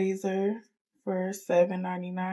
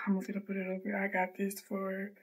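soft unvoiced whisper; 6 dB quieter than usual. Real, not acted. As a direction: whisper while someone sleeps. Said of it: "And I'm whispering 'cause".

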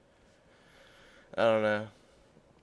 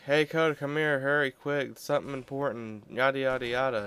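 family calling; 4 semitones higher than usual. Retold or imitated. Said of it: "I don't want them like".

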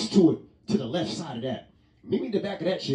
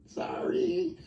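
whispered sorry; 5 dB quieter than usual. Acted. Apology after flirting bit.

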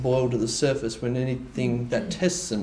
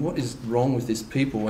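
proud inner thought; 4 dB quieter than usual. Retold or imitated. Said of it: "in our pride, thinking".

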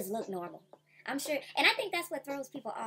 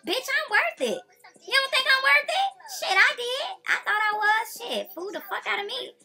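loud, much higher fired-up rant; heated rant; 5 semitones higher, 12 dB louder than usual. Real, not acted. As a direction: yell it back at the haters.

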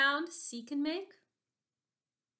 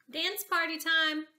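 excited announcement; 3 semitones higher than usual. Real, not acted. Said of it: "calling kids to dance".

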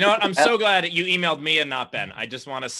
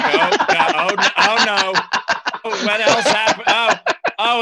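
mock panic; 6 semitones higher, 6 dB louder than usual. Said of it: "I was like".

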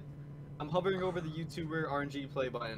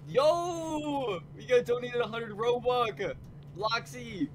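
shrieking jackpot winner; 8 semitones higher, much slower than usual. Real, not acted. Donation just came in.

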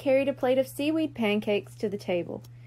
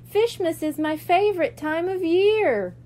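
Coral's pleased purr, higher and brighter; 6 semitones higher, 4 dB louder than usual. A narrator's reading. Coral purrs her joy at breakfast, higher and a bit louder. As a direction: purr it out happily, like a content cat. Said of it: "Coral purred at breakfast".

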